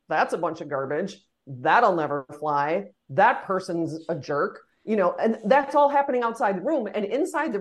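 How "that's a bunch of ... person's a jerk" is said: low, dismissive verdicts; lower-pitched, drawn-out disparagement; behind-the-back dismissal. Acted. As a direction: imitate staff trashing an idea outside the meeting. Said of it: "And outside the room, they're like".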